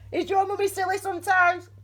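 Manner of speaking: high-pitched cooing to a pet; sing-song, high little question; pet talk. Real, not acted. Soothing her frightened pet, Tiny.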